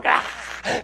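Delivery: whispered spooky gasp; mock monster gasp; creepy breathy ah. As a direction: breathe it like a lurking critter. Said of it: "then they'd shut the door".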